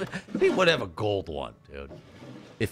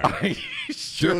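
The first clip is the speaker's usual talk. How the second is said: frantic shout; 14 semitones higher, slower than usual. Real, not acted.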